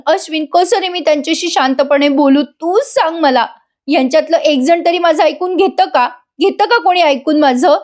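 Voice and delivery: high, pleading, imitated weepiness; lightly acted wounded appeal; mock tearful plea. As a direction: retell a wife's tearful protest. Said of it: "आपली बायको रडू लागली".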